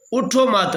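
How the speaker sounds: اٹھو مت as one closed phrase; pause after مت. Shown as a demonstration. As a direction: run اٹھو into مت and stop there, falling. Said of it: "مت پہ آگے کرتے ہیں".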